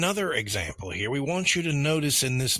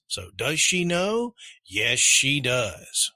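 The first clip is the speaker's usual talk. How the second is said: Yes, she does drawn out slow, she stressed; teaching she does to learners; slow clear demo. Shown as a demonstration. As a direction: spell out she does slowly. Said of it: "did you hear the change".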